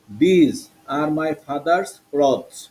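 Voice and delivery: "These", "father's", "clothes" with th as দ. Shown as a demonstration. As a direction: read slowly, "These" starting with a d sound. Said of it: "এখানে হলো সব দ".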